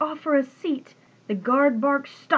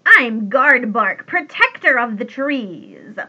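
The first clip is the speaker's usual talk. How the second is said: whisky wheeze; 8 dB louder than usual. A narrator's reading. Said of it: "with a whisky wheeze".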